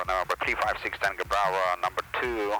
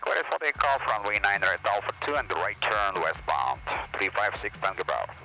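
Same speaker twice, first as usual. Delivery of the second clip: pilot cockpit headset; 9 semitones lower than usual. Real, not acted. Pilot reading back clearance.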